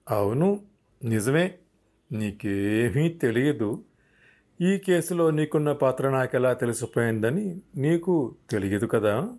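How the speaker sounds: slow, mild mocking agreement; a dry, understated jab at the suspect; sarcastic. Officer Vikram mocks Shravan's denial, mildly sarcastic. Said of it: "Vikram వ్యంగ్యంగా అన్న".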